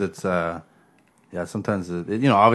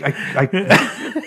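mock stutter; 8 semitones higher, slower than usual. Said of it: "really bad stutter".

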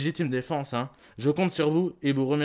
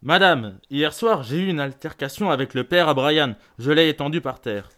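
forceful warning; 4 dB louder than usual. Acted. Parent warns teacher after a fight.

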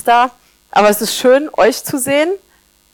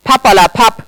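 dismissive; 3 dB louder than usual. Acted. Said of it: "widerspricht das älteste Salzkorn".

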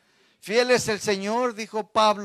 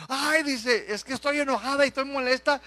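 higher, quick mock-upset rant; niece's angry rant; 5 semitones higher, 4 dB louder than usual. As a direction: imitate the fuming niece, rushing. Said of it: "Y luego dice".

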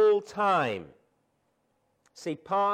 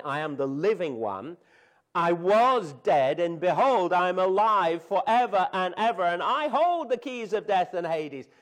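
triumphant proclamation; 4 dB louder than usual. Acted. Triumphant scripture quote.

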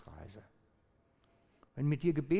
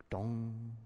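drawn-out "dong" on one level note; bell imitation; 2 semitones lower than usual. Shown as a demonstration. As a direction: let it ring like a struck bell. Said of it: "wie eine Glocke".

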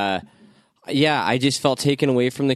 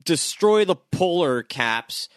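mock the villain's grand plan; mock Apocalypse voice; 4 semitones higher than usual. Voicing Apocalypse mockingly.

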